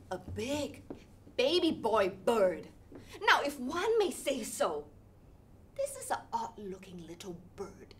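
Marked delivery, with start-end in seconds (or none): 5.8-7.9 hushed, secretive aside; whisper. Acted.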